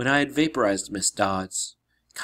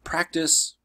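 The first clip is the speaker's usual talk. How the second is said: higher, mildly raised call; calling after someone; 5 semitones higher than usual. Acted. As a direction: call out advice after them. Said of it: "Chiron called after him".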